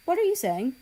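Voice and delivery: shocked question. Acted. Shocked boyfriend.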